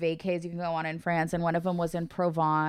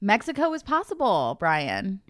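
excited; 4 dB louder, slower than usual. Real, not acted. Announcing to Brian.

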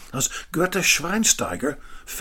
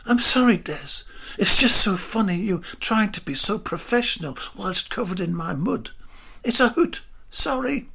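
high, laughing through the words; giggling at a mud-covered colleague; laughing apology; 6 semitones higher, 4 dB louder than usual. A narrator's reading. Greta laughs at muddy Des while apologising. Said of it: "started to laugh".

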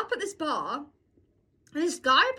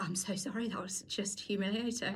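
retold mortified apology; 5 semitones lower, 9 dB quieter than usual. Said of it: "She's like".

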